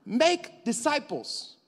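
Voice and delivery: high and slow, each word stretched; booming slow mandate; proclaimed command. Shown as a demonstration. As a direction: drive the command home. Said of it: "preacher repeats the command".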